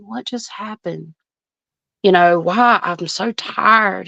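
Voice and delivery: put-on hushed, worn-out young man voice; imitating his voice. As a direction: breathe it out like someone just waking, confused. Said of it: "he talks kinda like that".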